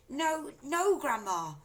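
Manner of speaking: high, loud pleading; crying out. A narrator's reading. George crying out to grandma. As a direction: cry it out while pulling away. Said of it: "George cried out".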